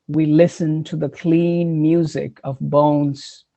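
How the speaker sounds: slow, measured poetry recital; poem reading. Acted. Poet reading The Singing Bone, measured recital. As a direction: read it line by line, deliberately.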